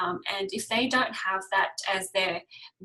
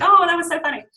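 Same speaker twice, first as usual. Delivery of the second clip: mock laughing; 8 semitones higher, 11 dB louder, faster than usual. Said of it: "And then it's like".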